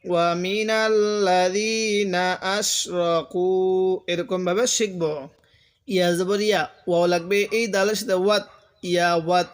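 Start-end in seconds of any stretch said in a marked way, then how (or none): 0.0-3.5 slow Quranic recitation; recite along. Shown as a demonstration. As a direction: draw out মিনাল্লাযীনা slowly for students to repeat. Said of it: "আরেকবার আমার সাথে বলুন".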